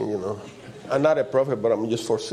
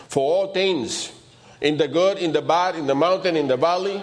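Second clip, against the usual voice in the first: raised pitch, rhythmic listing; emphatic scripture preaching; 4 semitones higher than usual. Real, not acted. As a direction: proclaim each phrase to the congregation. Preacher proclaims the verse.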